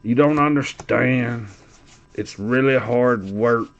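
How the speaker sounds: slow, mildly mocking whine; Irish. Imitating him insisting on his hardship, mock whining. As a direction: plead slowly, dragging the words. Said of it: "y'all should hear all the whining".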